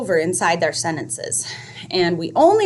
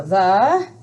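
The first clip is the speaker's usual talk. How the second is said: spacing demo; 5 dB quieter, much slower than usual. Shown as a demonstration. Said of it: "So then we go".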